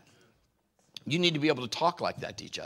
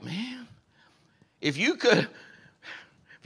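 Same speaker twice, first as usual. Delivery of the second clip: whisper; 7 semitones higher, much slower than usual. Real, not acted. Whispered aside about the pastor.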